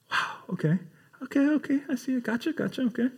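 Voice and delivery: soft, eager okays; a hushed, nodding okay okay gotcha; quietly brushing it off with quick agreement; mock eager parent. Parent voiced in retold parable.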